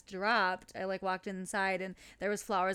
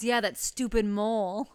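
laughing; 7 dB louder than usual. Retold or imitated. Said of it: "he goes".

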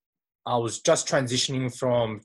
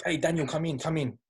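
higher, softer friendly welcome; warm and welcoming; 5 semitones higher, 3 dB quieter than usual. Retold or imitated. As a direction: wave someone in kindly. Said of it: "with a really warm and welcoming vibe".

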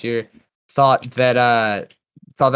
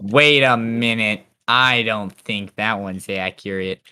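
slow, lower nerdy correction; nerd voice; 5 semitones lower, slower than usual. Acted. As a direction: play the know-it-all nerd. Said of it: "You put on your best nerd voice for that".

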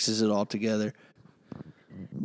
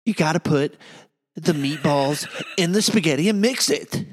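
a light, slightly louder mock of her, laughing at the end; imitating his partner; 5 semitones higher, 3 dB louder than usual. Asked to imitate the host, he gives a mild mocking impression. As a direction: tease her with a lightly voiced impression of how she talks. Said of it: "Imitate me".

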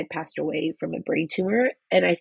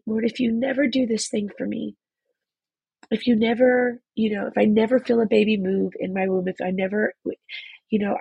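crying; 2 semitones higher than usual. Real, not acted. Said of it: "'cause I'm crying so much".

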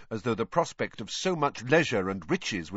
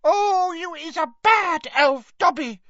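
very high, loud elf wail; tearful moan; 7 dB louder than usual. A narrator's reading. Winky reproaches Dobby, moaning tearfully. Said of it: "moaned Winky".

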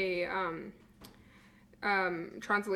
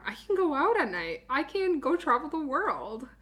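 imagined excitement; 5 semitones higher than usual. Retold or imitated. Voicing a bride's imagined freedom.

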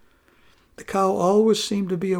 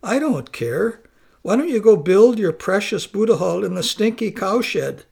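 scornful wife; 2 semitones higher, 4 dB louder than usual. Acted. Wife insulting her husband.

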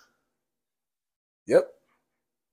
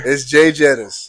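louder; 5 dB louder, slower than usual. Real, not acted. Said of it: "Say it one more time louder".

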